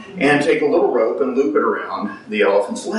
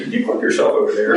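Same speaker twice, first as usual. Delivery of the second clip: nervous guide voice; 9 semitones higher, faster than usual. Retold or imitated.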